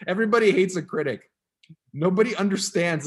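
loud, mock-serious reading aloud; dramatic reading. Shown as a demonstration. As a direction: read it big and dramatic. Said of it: "I can't even read it without laughing".

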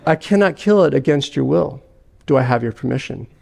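an unhurried, grave angel; calm angel. Acted.

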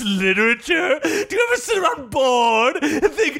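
oversell the books like a cheesy ad; mock ad read. Mock ad for Anne Rice.

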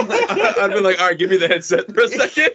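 laughing. Pretend. Joking retelling, laughing.

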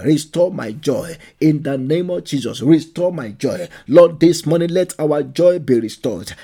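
loud, forceful prayer at full voice; preaching prayer. Acted. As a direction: cry out to the Lord, pleading hard.

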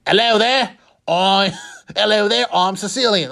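a mock Australian accent, meant as Liverpool; botched Australian accent. Mob boss imagined in a mock Australian accent. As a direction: slip into a hammed-up Australian accent by mistake. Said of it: "That's Australian".

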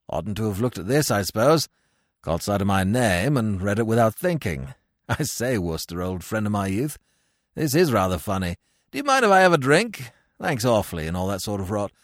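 breezy silly-ass Englishman, lightly voiced. Cyril telling Wooster about his stage part, low and chummy.

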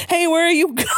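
very high, stretched comic wail, laughing; calling after falling. A narrator's reading. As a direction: stretch it out through the narration like a fall. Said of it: "asked Satan as I fell".

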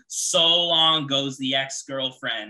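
drawn-out announcer home run call; slow, proud broadcaster call. Retold or imitated. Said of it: "the best home run call I ever heard, the guy says".

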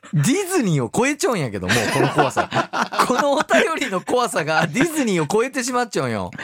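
laughing. Real, not acted. Reacting to a shocking letter.

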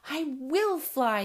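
crying out determinedly. Acted. Small owlet vows to fly, crying out. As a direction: insist loudly like a stubborn little bird. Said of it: "he cried".

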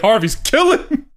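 slow, amused mock quote; laughing pun. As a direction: deliver the name pun through laughter.

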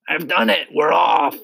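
high, loud announcement; triumphant shout. A narrator's reading. Centipede poking through the ceiling, high triumphant shout. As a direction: shout the news to everyone.

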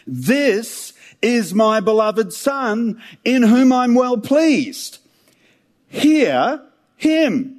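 slow, solemn and lifted voice of heaven; a touch of booming divine voice; voice of God from the cloud. Acted. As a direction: announce it slowly, like a voice from a cloud. Voice from the cloud speaking.

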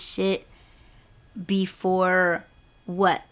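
halting, incredulous retort with pauses; retold fed-up sarcasm; annoyed. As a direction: spell it out in irritation, rising to a questioning end. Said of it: "I was just so annoyed at that point".

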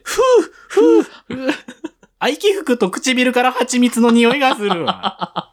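high, slow, laughing mock-seductive voice; mock sultry drinker. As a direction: blow on the sake, hammed-up sexy. Mock sultry bar patron.

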